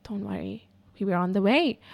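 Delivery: soft, reassuring imitation of a call-taker; calm dispatcher. Call-taker reassures a crying caller, calm and soft. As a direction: start very quietly and soothe. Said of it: "speak to me that calmly".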